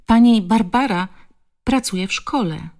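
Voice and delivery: put-on high child's voice with hesitant breaks; halting protest. A narrator's reading. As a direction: plead your case in broken phrases. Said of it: "zacinając się przy każdym słowie". (dziecięce, urywane tłumaczenie się)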